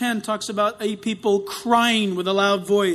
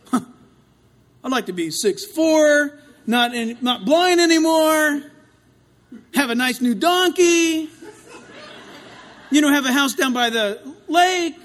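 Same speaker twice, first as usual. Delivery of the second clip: laughing wish list; 4 semitones higher, 4 dB louder, slower than usual. Retold or imitated. Playful wish list from God.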